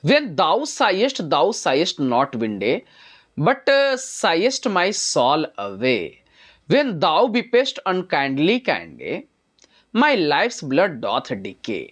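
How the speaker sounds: very slow, drawn-out reading of verse; slow poem recitation. Shown as a demonstration. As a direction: lay out each word of the poem slowly. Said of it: "जरा थोड़ा सा ध्यान से समझिएगा". (धीमा कविता पाठ)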